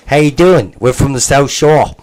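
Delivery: a hint of a South Shore Nova Scotia local; mock South Shore Nova Scotia accent. Mocking his buddy's friends, a light South Shore Nova Scotia accent. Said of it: "and all his boys talk like this".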